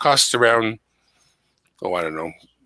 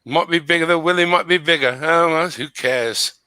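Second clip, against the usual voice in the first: higher-pitched put-on British accent; phony British accent; 4 semitones higher than usual. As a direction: joke along in a fake British accent. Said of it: "I'm gonna try to put on a British accent".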